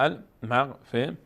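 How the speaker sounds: المغفرة syllable by syllable, closing on -rah; pausal he ending. Shown as a demonstration. Teacher sums up the change at a stop, pausal h. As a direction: turn the te of المغفرة into final h.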